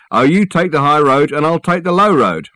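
high, loud amateur singer impression; a singer. Porter demonstrating for his workmate, high impression of a singer. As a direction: show off a famous tenor, hammed-up. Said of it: "This is a singer".

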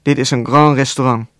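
measured, mildly emphatic statement of "grand restaurant". A narrator's reading. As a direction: lay some weight on "Dit is een grand restaurant". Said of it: "Toen zei ze nadrukkelijk". (met lichte nadruk op "Dit is een grand restaurant")

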